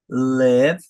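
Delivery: "live" with a short open sound, like "lev"; E-like vowel. Shown as a demonstration. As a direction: model "live" without a final vowel. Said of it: "som do E".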